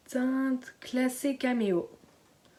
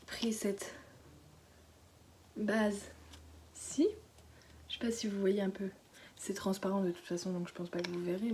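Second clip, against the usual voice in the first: whisper; 5 dB quieter than usual. Real, not acted. Baby sleeping nearby, whispering.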